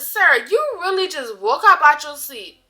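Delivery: sassy disbelief. Retold or imitated. Confronting him over fake alarm.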